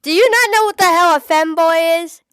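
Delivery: can't believe they don't know; incredulous. Real, not acted. Incredulous at friend's ignorance.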